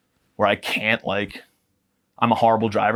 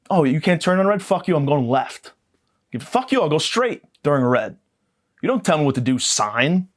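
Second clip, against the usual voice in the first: higher, indignant rant at a sign; mock road rage; 4 semitones higher than usual. Driver rants at a no-turn-on-red sign, mock outraged. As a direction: tell off the sign like it insulted you.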